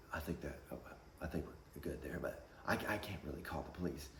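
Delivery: almost whisper, appeasing; timid manager. Retold or imitated. Manager nervously reasoning with the angry mother, quiet. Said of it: "he's like".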